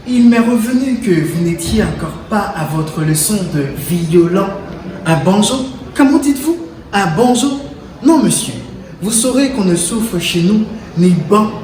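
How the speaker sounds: rising outrage of a strict mother; scolding mother. Acted. Poem's scolding mother voiced.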